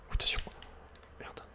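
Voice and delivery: ordinary talk, nothing marked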